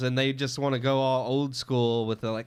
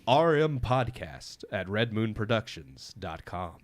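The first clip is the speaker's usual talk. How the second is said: slow, formal work phone voice; 2 semitones lower than usual. Shown as a demonstration. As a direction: read it like a receptionist. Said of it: "The bass in his voice".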